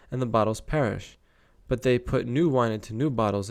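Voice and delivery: measured Bible read-aloud; scripture reading. Acted. Reader telling of miracles to listeners, scripture reading. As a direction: read out the verses with deliberate phrasing.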